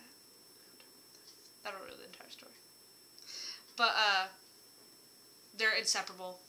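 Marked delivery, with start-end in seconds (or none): 0.0-1.6 slow secretive whisper. Shown as a demonstration. 1.6-2.5 hushed whisper. Real, not acted. Hiding spoilers.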